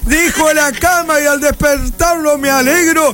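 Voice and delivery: drawn-out, festive announcer's recitation; declaimed radio verse. Acted. Host greets listeners at week's end, declaimed verse. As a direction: stretch out the vowels like a rural show opener. Opens show with shouted verse.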